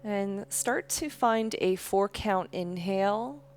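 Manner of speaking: calm, unhurried yoga-teacher voice; guided breathing meditation. Real, not acted. Leads slow breathing meditation.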